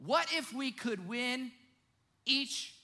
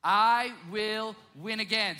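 slower, louder, drawn out; slow emphatic declaration; 9 dB louder, slower than usual. Shown as a demonstration. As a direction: lead the crowd in saying it. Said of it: "I want you to say it with me".

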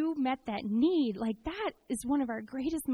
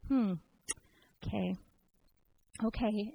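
Jeff Kerr; 3 dB quieter than usual. Retold or imitated. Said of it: "he kinda did his Jeff Kerr".

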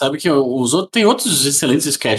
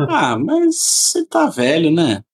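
teasing; 4 semitones higher, slower than usual. Real, not acted. Teasing about Cleese.

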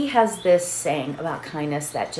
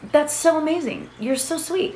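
higher, lightly re-enacted gushing thanks; touched gratitude; 8 semitones higher than usual. Mother thanking daughter for water, touched and higher. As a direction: gush a little, pitched up.

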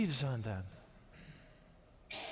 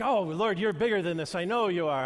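pleading prayer; 5 dB louder than usual. Retold or imitated. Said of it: "I'm like".

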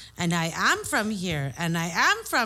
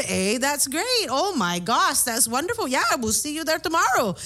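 fawning officers; 4 semitones higher than usual. Retold or imitated. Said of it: "No, I was the Nina".

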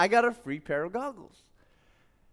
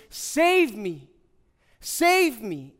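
calling out; 2 semitones higher, 3 dB louder, much slower than usual. Acted. Both criminals call out to Jesus on the cross, acted plea. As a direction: cry out a mild plea for rescue.

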